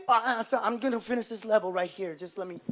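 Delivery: soft mumbled stalling, fading away; distracted gamer son. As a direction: answer absently while glued to the game. Son absorbed in video game.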